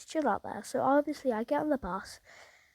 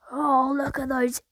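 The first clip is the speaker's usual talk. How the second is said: slow, drawn-out jeer, louder; loud mocking remark; 6 dB louder, slower than usual. Stranger mocking the boys aloud on the bus, slow sneer. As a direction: sneer it slowly so the whole bus hears. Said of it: "Out loud, like, everybody on the bus could hear it".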